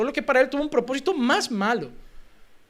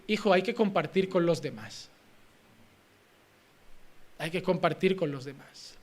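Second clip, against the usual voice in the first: gentle parental instruction; 5 semitones lower, 8 dB quieter than usual. Retold or imitated. Voices a parent instructing child.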